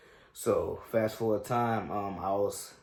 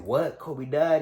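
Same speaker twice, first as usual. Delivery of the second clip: higher, louder retold disbelief; mild mock shock, louder and higher; imitating shocked brother; 6 semitones higher, 6 dB louder, much slower than usual. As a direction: replay the brother's stunned question. Little brother hears the news.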